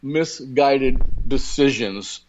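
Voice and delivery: lightly voiced condescending elitist, slowing down; a hint of a snooty elitist talking down to voters; mock elitist voice. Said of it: "they say".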